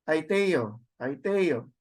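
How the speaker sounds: "Aiteo" stressed on the te, falling after it; accent on epsilon. Shown as a demonstration. Teacher letting students hear the accent, te stressed in Aiteo. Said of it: "you could hear the accent in the epsilon".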